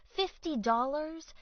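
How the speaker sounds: can't believe the price; incredulous. A narrator's reading. Beth Ann hearing the fifty-dollar toll, incredulous.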